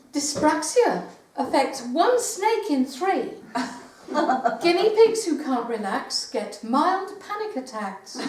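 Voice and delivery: measured verse with punched key words; comic poem reading. Acted. Poet reading comic animal verse to an audience, poem reading. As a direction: read the poem out deliberately, pausing for the laughs.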